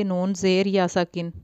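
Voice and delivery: put-on نون زیر یا ساکن read with zer, the mistake children make; common wrong reading. Shown as a demonstration. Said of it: "اکثر بچے غلطی کر جاتے ہیں". (غلط تلفظ: نون زیر یا ساکن)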